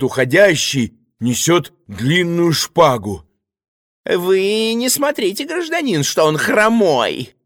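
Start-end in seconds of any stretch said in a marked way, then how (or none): 4.0-7.3 высоко и сипло, подозрительно; засипеть с подозрением, очень высоко; hoarse suspicious choirmaster. Acted. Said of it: "засипел подозрительно регент". (регент сипит Ивану в ухо)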